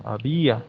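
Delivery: Había, con el acento en la í. Shown as a demonstration. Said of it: "con acento en la I". (Había, marcando la í tónica)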